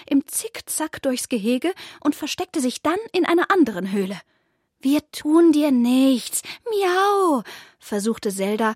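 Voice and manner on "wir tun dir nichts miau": soothing. A narrator's reading. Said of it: "das ängstliche Kaninchen zu beruhigen".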